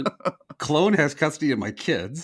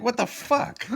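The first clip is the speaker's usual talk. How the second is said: high, laughing disbelief; shocked; 11 semitones higher, slower than usual. Retold or imitated. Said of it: "I was like".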